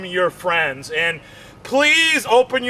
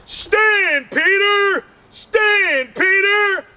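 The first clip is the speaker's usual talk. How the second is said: mock commanding; 9 semitones higher, much slower than usual. Wife commanding her husband's body part to stand. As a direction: order it to stand up. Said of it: "she's like".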